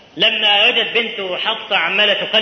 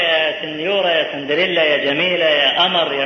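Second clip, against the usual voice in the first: doting husband; 4 semitones lower than usual. Retold or imitated. Husband sweet-talking his wife.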